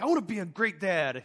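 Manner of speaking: mildly hammed-up excitement of a moved movie fan; excited viewer. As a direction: imitate someone fired up by a film speech. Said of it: "you're like all excited".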